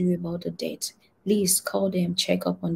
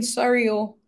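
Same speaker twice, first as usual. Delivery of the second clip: higher, louder cowering apology; fleeing demon squealing sorry; pleading spirit; 5 semitones higher, 7 dB louder than usual. Retold or imitated. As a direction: beg for mercy as a chastened spirit. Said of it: "somebody was saying".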